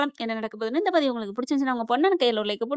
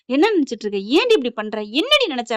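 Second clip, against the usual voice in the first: angry scolding. Retold or imitated. Hero demands what she was thinking, mildly angry scolding. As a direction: scold her with rising irritation. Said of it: "அப்படின்னு சொல்லிட்டு கோவம் வருது".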